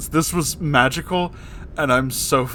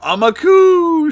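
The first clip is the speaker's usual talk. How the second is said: mock shout; 14 semitones higher, 7 dB louder, slower than usual. Narrated shout in story.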